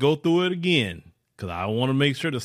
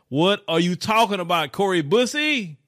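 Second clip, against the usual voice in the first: exasperated; 5 semitones higher than usual. Real, not acted. Exasperated at clip speaker.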